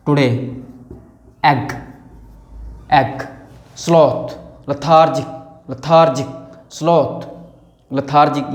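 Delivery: low, lazy, drawn-out words; lazy delivery. Shown as a demonstration. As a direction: say them like a bored sloth. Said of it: "lazy sound होते हैं". (आलसी, धीमी नीची आवाज़ में)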